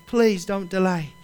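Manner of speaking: gentle plea. Acted. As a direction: ease off and beg Please don't delay kindly. Preacher pleads softly after the shout.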